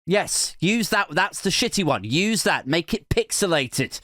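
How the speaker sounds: mock scammer boss. Comedian voicing a scammer boss choosing the shitty logo, eager and high. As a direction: play the boss picking the worst option. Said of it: "The boss is like".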